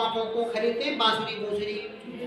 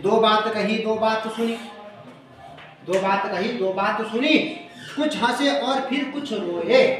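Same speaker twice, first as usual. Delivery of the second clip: recited verse. Shown as a demonstration. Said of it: "आगे कह रहे हैं".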